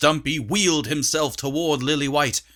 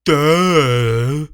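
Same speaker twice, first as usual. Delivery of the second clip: loud dopey grunt; stupidly; 8 dB louder than usual. A narrator's reading. Dim dwarf answering the girl, dopey voice. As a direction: play it dim-witted. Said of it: "said Dummy stupidly".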